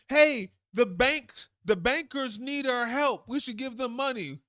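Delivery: a lightly hammed-up lawmaker begging for banks; mock politician plea. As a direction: draw out the plea for the bankers. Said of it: "when they wanna give".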